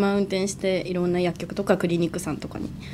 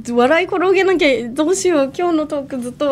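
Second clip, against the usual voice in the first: excited; 7 semitones higher, 6 dB louder than usual. Real, not acted. Jokes about having to laugh.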